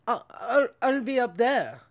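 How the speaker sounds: put-on shitty British accent; half-hearted attempt at a British accent; Russell Brand. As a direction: imitate a Brit, badly. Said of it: "you have a shitty British accent".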